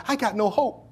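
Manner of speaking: building from pleading to a loud, high desperate cry; the broken woman's plea, rising to a high, loud wail. Retold or imitated. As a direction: cry out like it's your last hope. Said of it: "a woman that felt like".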